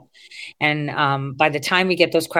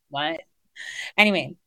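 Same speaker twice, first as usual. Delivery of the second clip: ordinary talk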